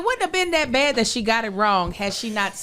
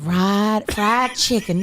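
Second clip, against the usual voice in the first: southern twang mimic; 6 semitones lower, much slower than usual. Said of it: "she has the southern twang".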